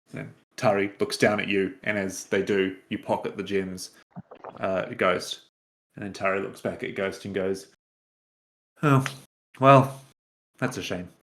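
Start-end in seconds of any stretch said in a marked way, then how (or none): 8.8-11.0 sincere, genuinely disappointed, let-down tone. Voicing a character who finds nothing of value: genuinely disappointed. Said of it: "he is genuinely disappointed".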